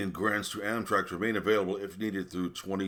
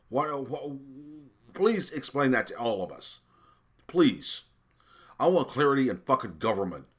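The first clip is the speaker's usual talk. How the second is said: raised, higher, pleading outrage; louder, higher indignant plea; indignant rant; 6 semitones higher, 4 dB louder than usual. Real, not acted. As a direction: demand an answer, exasperated. Outraged rant at official's salary.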